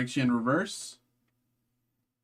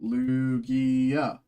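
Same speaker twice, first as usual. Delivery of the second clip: excited; 9 semitones higher than usual. Real, not acted. Hoping for a chase card.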